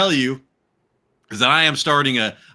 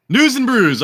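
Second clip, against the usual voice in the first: hyped announcer; 9 semitones higher, 5 dB louder than usual. Acted. Show segment intro.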